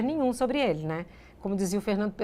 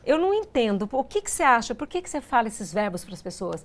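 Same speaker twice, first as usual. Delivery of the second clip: distressed. Retold or imitated. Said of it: "foi ficando numa angústia".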